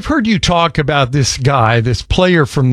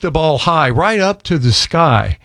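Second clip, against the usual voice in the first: limerick recital. Pretend. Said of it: "I went ahead and wrote a limerick".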